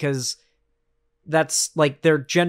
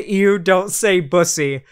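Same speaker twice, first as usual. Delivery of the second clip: slow, louder mock disgust on ew; mock grossed-out; 2 semitones higher, 5 dB louder, slower than usual. Streamer mimicking a grossed-out chatter, mock disgust. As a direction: ham up a squeamish viewer recoiling. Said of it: "somebody was grossed out by it".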